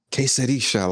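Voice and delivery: put-on "quesadilla" with a light Spanish accent, "keh-sa-DEE-ya". A son coaching his country dad, light Spanish accent. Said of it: "in a Spanish, you know, accent".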